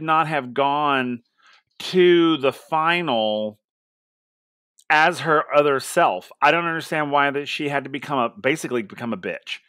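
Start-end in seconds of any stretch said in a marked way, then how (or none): none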